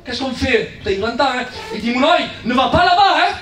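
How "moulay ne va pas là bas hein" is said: firm raised voice. Shown as a demonstration. Parent calling sharply to a child, raised voice. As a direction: raise the voice to show it's serious. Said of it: "le fait que tu es là à la voix, tu montres la gravité".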